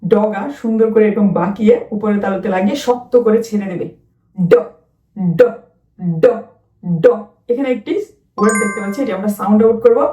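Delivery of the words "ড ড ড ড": ড with curled tongue, released hard; phonics sound. Shown as a demonstration. Teacher to children, showing how to make ড. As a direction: snap ড off the palate. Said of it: "ড উচ্চারণ করার জন্য কি করতে হবে".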